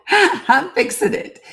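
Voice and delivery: high, slowed, laughing through the words; flustered laugh while fixing the stream. Real, not acted. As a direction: laugh it out in embarrassment. Laughing at own tech trouble.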